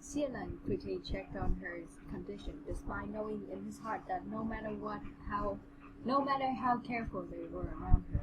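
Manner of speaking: measured, even read-aloud voice; understated storybook narration; story narration. A narrator's reading. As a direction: read the passage out steadily.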